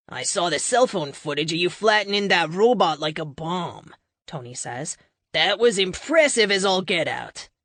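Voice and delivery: put-on a light Boston accent, impressed; casual Boston accent praising her. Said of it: "his Boston accent and idiom".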